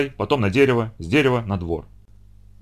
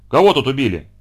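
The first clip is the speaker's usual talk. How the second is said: милиционер кричит; 4 dB louder than usual. Acted. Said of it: "кричал милиционер".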